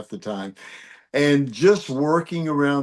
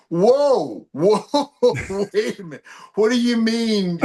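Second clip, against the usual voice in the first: retold startled protest; 8 semitones higher than usual. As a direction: act out calling a sudden halt. Retold startled protest to film crew.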